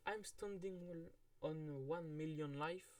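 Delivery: slow English title in a heavy French accent; English spoken with a French accent. Real, not acted. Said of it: "excusez-moi pour l'accent anglais très dégueulasse".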